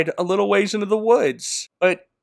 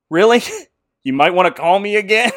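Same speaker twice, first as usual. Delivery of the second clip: teasing, laughing; 3 semitones higher, 4 dB louder, faster than usual. Retold or imitated. Lucy teasing her sister.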